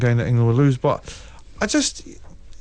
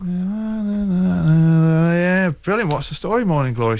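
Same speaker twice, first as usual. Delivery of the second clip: put-on light American accent; 4 semitones higher, 3 dB louder, slower than usual. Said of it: "Was that an American accent you put on there?".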